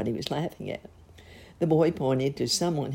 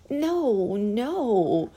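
high, louder protest; crying out; 9 semitones higher, 5 dB louder than usual. A narrator's reading. Clown protesting to the wise man, high and louder. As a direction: blurt out a pleading no. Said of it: "cried the little clown".

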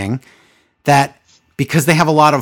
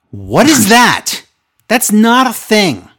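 laughing disbelief; 7 semitones higher, 5 dB louder, slower than usual. Real, not acted. Laughing disbelief at made-up word.

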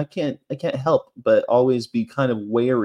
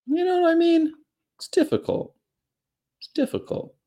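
whispered. Acted. Put-on voice then whisper.

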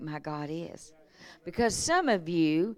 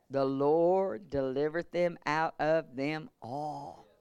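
slow reassurance; 4 semitones lower, slower than usual. Real, not acted. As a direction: drop low and slow. Soft slow after shout.

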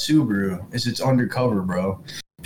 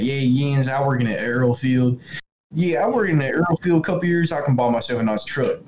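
imitated Pittsburgh Yinzer talk; Pittsburgh accent; 3 semitones higher than usual. Imitating oil field coworkers from West Pennsylvania, Pittsburgh accent. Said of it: "um, the Pittsburgh accent".

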